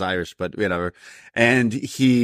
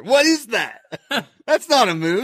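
laughing; 11 semitones higher than usual. Real, not acted. Laughing at the finisher clip.

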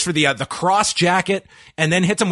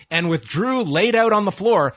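usual speaking voice

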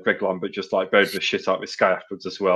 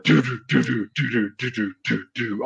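imitated drumming; 2 semitones higher than usual. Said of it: "gorilla from the Cadbury advert with the drum kit".

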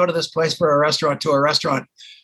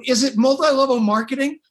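pitched way up and hopeful; high eager question; 9 semitones higher than usual. Retold or imitated. Caller guessing the catch on the phone, pitched high with eagerness. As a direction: ask like everything hangs on it. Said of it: "I'm crazy".

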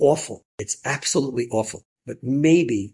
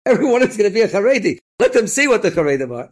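higher, louder, proud imitation of the donor; lightly voiced proud donor declaring his plan; proud quote; 9 semitones higher, 6 dB louder than usual. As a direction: quote him with gusto. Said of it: "he says".

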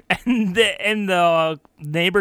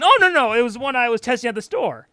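high, rushed mock panic; a guilty neighbor scrambling for an excuse; panicked denial; 4 semitones higher, faster than usual. Man caught, panics.

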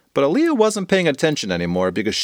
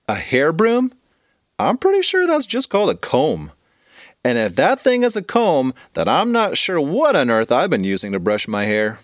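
put-on puzzled young girl; 3 semitones higher than usual. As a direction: wonder aloud, baffled. Aaliyah voiced by narrator.

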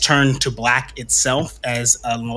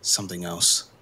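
out of breath; 5 semitones lower, 8 dB quieter than usual. Acted. Exhausted priest speaking after ritual.

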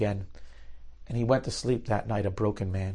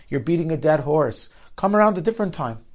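exasperated townsfolk; 5 semitones higher, 4 dB louder than usual. Retold or imitated. Townspeople refusing Naftali.

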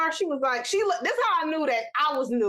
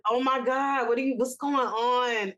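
retold embarrassed dismay, drawn out slowly; 2 semitones lower, slower than usual. Cousin mortified by his mom in the car, embarrassed. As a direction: act out a mortified son, mildly. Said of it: "And just straight embarrassment".

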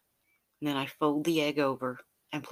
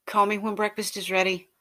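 calling out; 6 semitones higher, 6 dB louder than usual. Acted. Lover calls back leaving the kitchen.

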